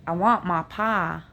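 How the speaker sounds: "my pie" said "ma pah", the I flattened to "ah"; Appalachian accent. Shown as a demonstration. Vlogger contrasting her Appalachian vowels. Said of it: "the Appalachians say the I sound".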